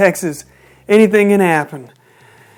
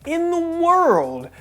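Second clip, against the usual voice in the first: slow, higher-pitched disbelief; incredulous; 7 semitones higher, 4 dB quieter, slower than usual. Real, not acted. Reviewer baffled that Riho kicked out, incredulous. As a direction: draw it out slowly and high, baffled.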